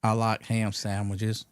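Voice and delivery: drawn-out, slow caller voice; imitated odd caller. Odd caller answers the radio host, slow drawn-out mock voice. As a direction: play a slow, kooky phone-in caller. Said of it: "And this guy goes".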